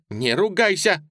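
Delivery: high, loud scolding blurt. A narrator's reading. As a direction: snap out the rebuke. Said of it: "выпалила".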